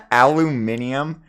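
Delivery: amused, exaggerated "Aluminium" with stress on MIN; British pronunciation. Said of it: "That's like a British thing".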